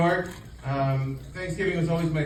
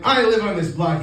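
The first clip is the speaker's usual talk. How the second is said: louder, bluffing rich-lady voice; mock entitled claim; 4 semitones higher, 5 dB louder than usual. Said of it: "I'm like".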